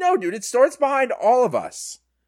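put-on know-it-all voice, high-pitched.

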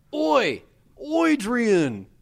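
put-on Australian accent. Joking about a director calling an actor to set: Steven Spielberg with Australian accent. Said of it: "'Cause he's a famous Australian director".

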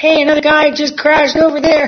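very high shout. Retelling calling out to a policeman from the car: imitating own screaming. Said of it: "I'm screaming to the policeman".

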